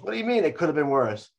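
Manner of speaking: mild mock yell. Guest complaining to the hotel owner about a scratched car, mock yell. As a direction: imitate an indignant complainer, only half yelling.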